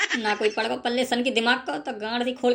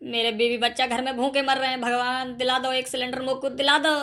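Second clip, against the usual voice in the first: tearful prayer. Acted. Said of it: "ऐसे रो मत तुम".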